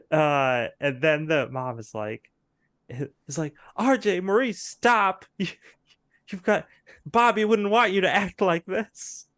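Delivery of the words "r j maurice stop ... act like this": high, loud stop-it plea; pleading soap mother. Acted. Mother pleading with quarreling sons, high dramatic plea. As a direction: break up the fight like a frantic mom.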